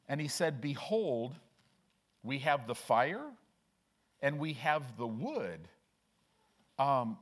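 deliberate Bible reading, drawing out key phrases; measured pulpit reading with pauses between phrases; scripture reading aloud. Real, not acted.

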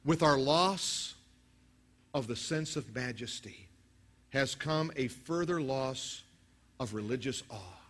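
slow, weighty reading; preacher reading a Tozer quote slowly. Real, not acted. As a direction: read it out slowly and gravely. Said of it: "Listen to this quote from Tozer".

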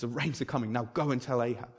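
low, soft and sure; hushed certainty. Retold or imitated. Elijah quietly tells his servant the rain is coming. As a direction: say it softly, with quiet conviction.

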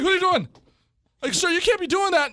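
mock nurse telling them off; imitated stern nurse. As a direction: scold them like an angry nurse. Retold nurse scolding.

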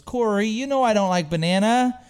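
retold scolding. Girlfriend reminding her boyfriend about banana, mildly scolding.

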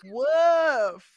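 a light mock woof; lightly voiced dog woof; dog bark. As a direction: bark it like a dog, half-hearted. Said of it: "He was like".

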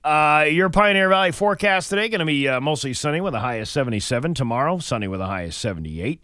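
upbeat announcer forecast voice; radio weather read. Acted. Radio host reads the forecast.

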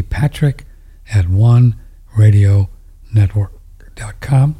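hiccuping through the words; speaking between hiccups. Real, not acted. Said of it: "got the hiccups".

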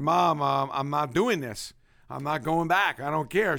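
put-on loud, stubborn kid refusing his mom; defiant kid. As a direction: push back hard like a fed-up boy. Kid defying mother, retold.

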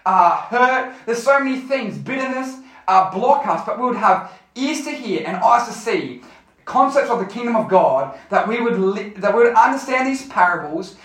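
earnest group prayer in phrases; spoken prayer. Real, not acted. Youth leader asking God to open ears and hearts, praying. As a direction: lead the room in prayer, phrase by phrase.

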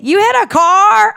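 very high, loud, slow disbelief; shocked question. Retold or imitated. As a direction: gasp it out in disbelief.

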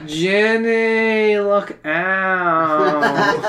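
high, laughing puppet voice; Pauly Shore Pinocchio. Acted. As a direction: squeak it out like a puppet. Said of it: "Pauly Shore's Pinocchio".

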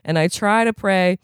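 aggrieved, profane, building to indignation; rough recovering addict. Acted. Mikey telling the AA crowd about his sister, aggrieved rant.

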